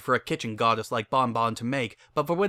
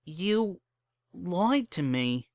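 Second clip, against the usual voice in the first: shocked Bon Bon; 7 semitones higher, much slower than usual. Acted. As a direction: let the shock land slowly.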